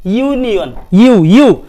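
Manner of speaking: यूनियन begun with a y-glide, then यू isolated; demonstrated pronunciation. Shown as a demonstration. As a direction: sound out यूनियन, repeating its opening यू. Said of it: "pronunciation आप एक बार pronounce कर". (यूनियन का उच्चारण, यू को अलग दोहराते हुए)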